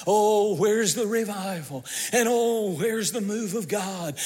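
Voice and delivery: a touch of whining defeat; mock despairing church. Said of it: "It's almost like the church says".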